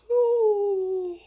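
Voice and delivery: long, high, loud hoot; high loud "ooh". Retold or imitated. Noise while quoting own note.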